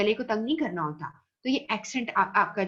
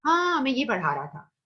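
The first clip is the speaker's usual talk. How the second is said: imitating a teacher; 4 semitones higher than usual. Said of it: "तो जैसे teacher कहता है".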